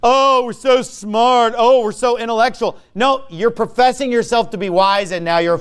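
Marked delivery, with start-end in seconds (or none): 0.0-2.8 mock smug. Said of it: "it's just like".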